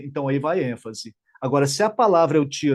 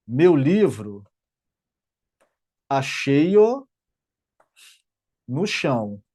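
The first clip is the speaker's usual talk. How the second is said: slow, paused words for emphasis; slow paused reading; 2 semitones lower, much slower than usual. Shown as a demonstration. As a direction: set each word apart with long pauses. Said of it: "Quer ver uma frase pra dar ênfase?".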